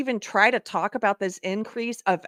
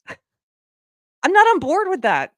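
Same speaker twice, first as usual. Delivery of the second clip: laughing; 8 semitones higher, 5 dB louder, much slower than usual. Real, not acted. Laughing disbelief at videos.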